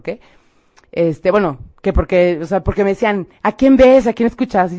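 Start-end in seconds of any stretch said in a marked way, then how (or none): 3.4-4.7 imitating insistent, louder questioning; urgent questioning. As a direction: quote them pressing for an answer, higher at first. Others question her as she cries.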